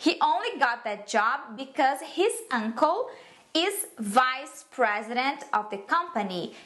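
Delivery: slow, dismissive English reply; sarcastic. Acted. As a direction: act unimpressed, drawing out the words. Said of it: "responde com tons de sarcasmo". (resposta sarcástica e arrastada)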